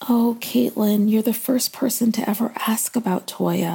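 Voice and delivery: choked up, breaking into a whisper; emotional. Real, not acted. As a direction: voice catching with emotion. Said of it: "I'm getting a little emotional here".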